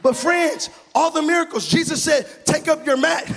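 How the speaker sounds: rising, rhythmic sermon delivery; full-force preaching. Acted. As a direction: preach it out to the church.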